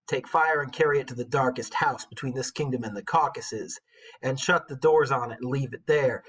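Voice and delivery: hammed-up rapper reading old poetry; terrible rapper voice. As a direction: rap the lines badly on the beat. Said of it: "my terrible rapper voice".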